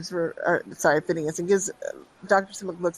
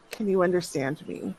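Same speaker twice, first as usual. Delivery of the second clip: gentle; 3 dB quieter than usual. Acted. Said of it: "approaches her very gently".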